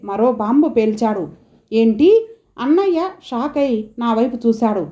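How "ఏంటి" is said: shocked. Acted. Brother shocked by revelation.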